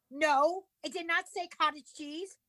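high, exasperated correction; indignant retort. Retold or imitated. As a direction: snap back at the deli guy in disbelief. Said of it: "I say to the guy".

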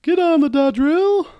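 high, loud, slow coach holler; Coach Saylor impression. Ordering the players onto the drill in a coach voice. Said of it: "I don't know if that was any better".

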